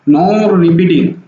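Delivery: non repeating stretched very slowly; very slow teacher drill; drawn-out term. Shown as a demonstration. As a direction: drag non repeating out, syllable by syllable. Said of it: "teacher drilling key term".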